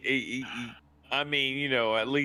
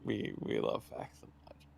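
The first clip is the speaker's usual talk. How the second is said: breathy whisper, much lower; 10 dB quieter than usual. Real, not acted. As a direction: whisper it like a secret. Hushed aside praising the guest.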